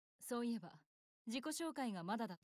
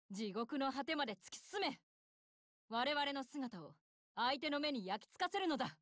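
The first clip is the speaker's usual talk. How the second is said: battle command. Acted.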